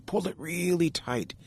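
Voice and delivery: "really" pushed high, strained as if tugging hard; straining effort. A narrator's reading. Beaver cinching his cedar belt, voice strained with effort. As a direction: squeeze the words like cinching a belt.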